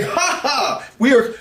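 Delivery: slow, mocking ha ha; mock laughter. Marvel laughing at DC, slow mock laugh. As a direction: laugh it off like the rival studio. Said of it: "Marvel is kicking back and laughing".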